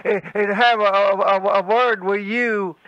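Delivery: halting, repeated little words; stuttering. Acted. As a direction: stammer towards the end of the threat. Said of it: "You can't talk without stuttering".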